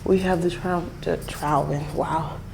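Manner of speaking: breathless, winded between words; out of breath. Real, not acted. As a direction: talk while gasping for air. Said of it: "I'm out of breath".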